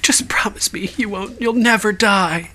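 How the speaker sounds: breathy high whispered promise; whispered plea. Retold or imitated. Host retelling Team America girl, whispered mock plea. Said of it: "and she's like".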